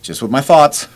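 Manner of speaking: grim reply. Retold or imitated. Andy answers while struggling.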